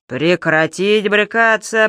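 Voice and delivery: slow, commanding policeman; bass order. Acted. The policeman orders the kicking man to stop, commanding. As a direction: lay down the law. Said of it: "приказал бас".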